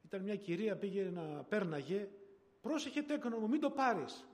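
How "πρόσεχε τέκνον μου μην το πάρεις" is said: higher, mock shouted warning; retold warning. Priest warns a woman not to take the leaflet, mock shouted warning. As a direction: imitate a priest scaring a woman off. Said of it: "φώναζε".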